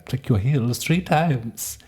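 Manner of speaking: high, slow, sing-song witch lilt; a light touch of a good witch voice; good witch line. Retold or imitated. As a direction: float it up like a kindly fairy godmother. Quoting the Wizard of Oz.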